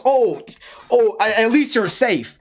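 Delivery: slow, mocking whiny mimic of the friends; mocking mimicry. Mocking the friends' late concern, slow whiny mimicry. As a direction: parrot their fake concern back.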